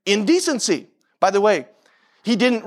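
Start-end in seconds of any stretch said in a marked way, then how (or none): 0.0-0.9 INDECENCY set apart with a rise and fall; stress on INDECENCY. Shown as a demonstration. Preacher showing the word Shammai emphasized, stress on INDECENCY. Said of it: "he emphasized the word indecency".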